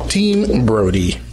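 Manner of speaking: slow exaggerated Boston Team Brody; Boston accent. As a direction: stretch it out like a Bostonian. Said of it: "Boston accent".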